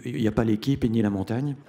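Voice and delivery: chuckling through the line; amused aside with a laugh in it; laughing to himself. Retold or imitated. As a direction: laugh as you say it to yourself. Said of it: "en rigolant".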